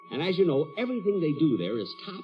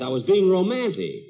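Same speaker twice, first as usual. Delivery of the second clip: indignant; 3 semitones higher, 5 dB louder than usual. Acted. Jack defending his kiss.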